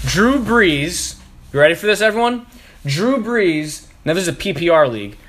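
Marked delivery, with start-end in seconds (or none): 0.1-3.9 incredulous. Real, not acted. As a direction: say it like you can't believe it. Outraged fantasy trade rant.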